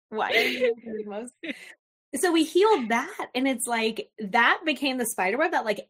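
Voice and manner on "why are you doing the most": high, incredulous mock scolding; exasperated scolding. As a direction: call everyone out, exasperated.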